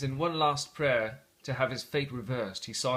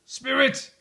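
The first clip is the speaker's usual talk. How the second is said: high, loud cry; cried out; 11 semitones higher, 7 dB louder than usual. Acted. Scrooge crying out to the phantom, frantic. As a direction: call out to the spirit in panic. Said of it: "he cried".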